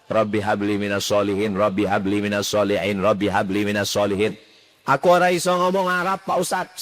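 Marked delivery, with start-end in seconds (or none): 4.9-6.8 congregant asking. Acted. Congregant asks the preacher.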